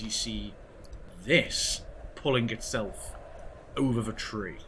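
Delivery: deliberate scene-setting, paused phrase by phrase; game master narration. A narrator's reading. Game master revealing a rotting creature to players, measured narration. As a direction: unfold the creature's reveal gradually.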